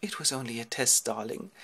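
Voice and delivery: soft wifely voice, trailing down; coy reassurance. Acted. Penelope placating Ulysses, soft coy reassurance. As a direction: soothe a husband sweetly. Wife placates her husband.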